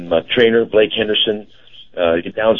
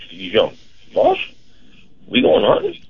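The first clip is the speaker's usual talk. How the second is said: dog voice. Retold or imitated. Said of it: "the way he talks like that".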